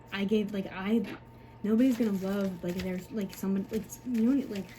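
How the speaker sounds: halting, broken-off false starts; struggling for words. Real, not acted. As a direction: stumble and restart, unable to finish the thought. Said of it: "I can't even get the words out".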